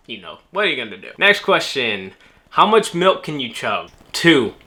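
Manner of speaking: ordinary talk, nothing marked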